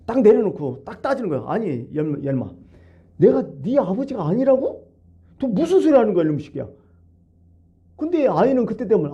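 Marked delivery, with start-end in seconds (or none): 1.5-6.7 a father outraged that his son denies him; indignant father. Acted. Father turns on the son who denies him, indignant.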